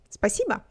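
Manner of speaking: Спасибо ending in an unstressed A; careful Спасибо, final о said like A. Shown as a demonstration. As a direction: model Спасибо with its last vowel as A. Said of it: "last vowel is pronounced as A".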